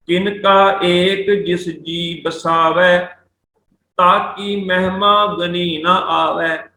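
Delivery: slow, measured verse reading; scripture recitation. Shown as a demonstration. Teacher reciting Gurbani to students, slow recitation. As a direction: draw out each word of the verse.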